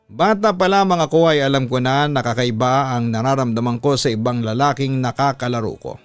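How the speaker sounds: ordinary delivery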